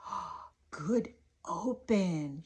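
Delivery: put-on slow, drawn-out praise for a toddler; hushed little gasp of approval; gentle praise. Shown as a demonstration. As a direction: praise the child softly, stretching each word. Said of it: "you're praising them".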